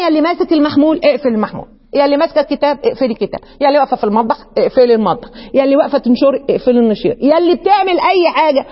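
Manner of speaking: fast urgent calls to each listener. Real, not acted. Teacher rapidly calling every listener to drop what they are doing. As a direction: rattle off the calls to stop and listen. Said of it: "calling listeners to focus".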